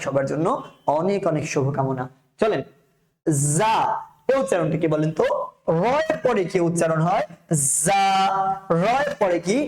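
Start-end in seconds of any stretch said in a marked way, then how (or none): 3.6-3.8 জা begun with a long buzzing z. Shown as a demonstration. Teacher models the letter for pupils, জা with buzzing z. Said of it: "ঠিক সেই রকম ভাবে উচ্চারণ করার চেষ্টা করতে হবে". 7.9-8.0 জা begun with a long buzzing z. Shown as a demonstration. Teacher models the letter for pupils, জা with buzzing z. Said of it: "ঠিক সেই রকম ভাবে উচ্চারণ করার চেষ্টা করতে হবে".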